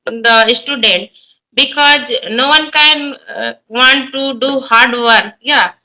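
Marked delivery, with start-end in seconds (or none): none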